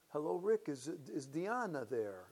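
lightly voiced Italian accent; thick Italian accent. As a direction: put on a hint of an Italian accent. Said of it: "man with a very thick Italian accent saying".

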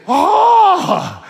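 loud, high held wail; mock belted "oh". Preacher imitates a small-restaurant musician, mock belting. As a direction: belt out one long high "oh".

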